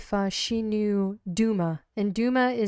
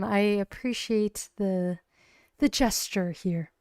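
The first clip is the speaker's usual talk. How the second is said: polite brush-off. Acted. Steel turning down FaZe Glare.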